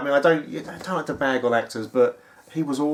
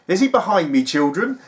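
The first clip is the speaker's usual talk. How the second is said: pantomime villain; 4 semitones higher, 5 dB louder than usual. Retold or imitated. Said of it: "he was so pantomime".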